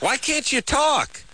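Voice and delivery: squeaky, slow, strangled question; high strained dream voice. Retold or imitated. Host mimicking his strangled voice from a nightmare. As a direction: sound like you can't get words out. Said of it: "Sometimes you can".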